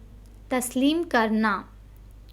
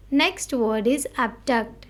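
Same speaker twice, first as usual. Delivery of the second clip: slow headword reading; slower than usual. Shown as a demonstration. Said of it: "We need to stress on the word".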